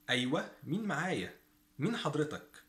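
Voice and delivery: مين as long "meen", معايا as "ma'aaya"; Egyptian pronunciation. Shown as a demonstration. Teacher models answering a phone call, Egyptian pronunciation. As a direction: say حضرتك as "hadritak", مين as "meen". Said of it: "This in Egyptian".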